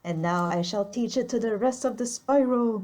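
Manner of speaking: grandiose scheming villain voice; mad scientist. Acted. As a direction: announce the evil plan with relish. Grand villainous plan announced.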